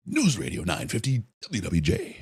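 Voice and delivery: street reporter announcer voice; hint of a radio announcer; news radio guy voice. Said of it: "the News Radio guy voice".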